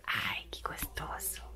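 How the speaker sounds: slow breathy whisper, almost no voice. Real, not acted. Cuddling pet, sudden hushed sigh.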